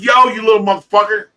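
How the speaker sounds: put-on loud furious call at a kid; retold yell at the kid on the bike; angry yell. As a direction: bark it at the kid riding over the grass. Yelling at kid over grass.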